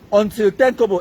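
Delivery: usual speaking voice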